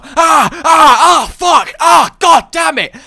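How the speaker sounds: hammed-up high screaming panic; screaming computer alarm. Computer reporting trouble in beeps, translated as panicked screaming. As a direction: scream it in short, very loud bursts. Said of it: "which is computer language for".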